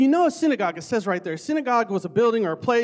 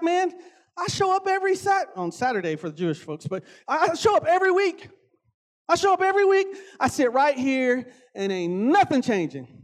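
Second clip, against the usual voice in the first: mock demon; 4 semitones higher than usual. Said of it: "he's like".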